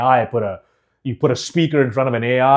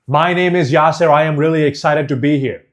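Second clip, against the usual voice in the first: mildly raised speaker's voice; talking loudly. Shown as a demonstration. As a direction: motivational speaker projecting. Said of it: "I'm talking loudly".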